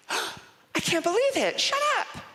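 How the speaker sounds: put-on very high, gasping girlish shock. Girlfriend shrieking at the confession, very high. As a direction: squeal in disbelief.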